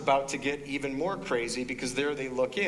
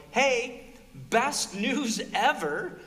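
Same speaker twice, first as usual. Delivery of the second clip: mock excitement; 9 semitones higher, much slower than usual. Voicing told good news.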